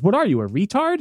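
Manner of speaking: imitating a jeering bully; sneering insult. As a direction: taunt him with it again. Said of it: "And he says".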